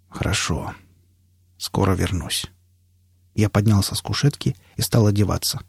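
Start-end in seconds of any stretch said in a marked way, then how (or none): 0.1-2.5 very low, soft, weakened voice; laboured speech. A narrator's reading. Failing patient takes leave of the doctor, low and laboured. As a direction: speak as if each word costs effort. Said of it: "Говорить становилось всё труднее".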